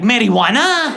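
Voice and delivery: loud, high mock Latino accent. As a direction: exclaim it in a Latino accent, stretching the last vowel. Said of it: "The Latinos saw my name".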